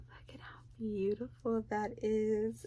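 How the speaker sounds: whispered in awe; awed whisper. Real, not acted. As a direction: breathe it out in wonder. Awed over a gift.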